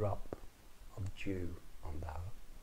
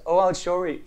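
high, loud exclamation; 9 semitones higher, 13 dB louder than usual. Acted. Leprechaun gives in.

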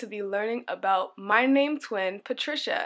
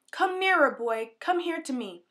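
put-on old man calling out; 4 semitones higher than usual. Trapped old man calls the frightened boy, mild call. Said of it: "the old man called out".

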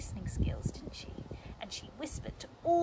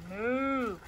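drawn-out cow moo; cow's moo; 4 dB louder than usual. Acted. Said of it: "And the cow said".

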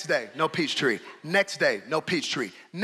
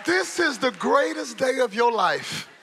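emphatic declaration; 6 semitones higher than usual. Acted. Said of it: "loud vs soft repeat".

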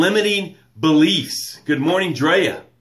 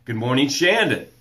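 welcoming greeting; 3 semitones lower than usual. Shown as a demonstration. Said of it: "this is how it should sound when you write it".

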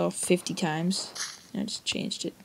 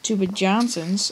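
mock insult; slower than usual. Insulting potatoes in game.

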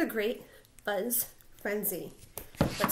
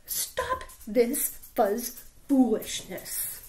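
stern order; slower than usual. Acted. Big Bark scolds.

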